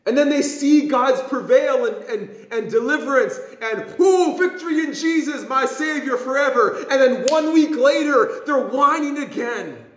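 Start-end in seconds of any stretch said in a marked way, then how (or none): 4.0-6.8 high, exultant churchgoer imitation; hammed-up victorious cheer; mock rejoicing. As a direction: act out a sudden burst of praise. Acts out people rejoicing at deliverance.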